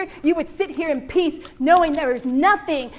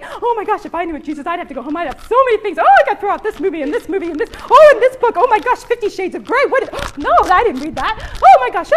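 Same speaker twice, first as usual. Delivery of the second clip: panicked churchgoer; 2 semitones higher, 4 dB louder, faster than usual. Retold or imitated. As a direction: play the woman scrambling to hide her sins. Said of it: "I know what you're thinking".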